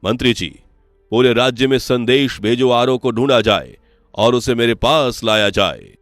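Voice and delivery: loud, firm order from a king; royal command. Acted. King orders minister to find his son, commanding and loud. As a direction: issue a decree to be obeyed.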